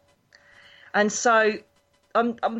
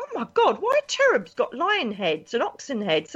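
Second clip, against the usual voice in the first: shocked gasp; 3 semitones higher than usual. Retold or imitated. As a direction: recoil at the sight, voice leaping up. Retold shock at the cherubim.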